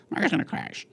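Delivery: lightly put-on news pundit; a hint of mock newscaster; CNBC voice. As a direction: mimic a TV market pundit. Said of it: "and that's how they speak".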